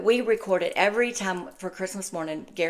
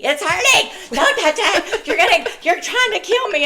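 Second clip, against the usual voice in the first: high, loud mock panic, half laughing; imitated screaming; 12 semitones higher, 7 dB louder than usual. Mother imitating daughter during a bandage change, screaming. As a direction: holler like a kid in pain. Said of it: "She starts screaming and yelling at me".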